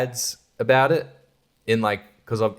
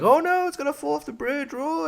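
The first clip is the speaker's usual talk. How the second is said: mock panic. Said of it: "and it's like".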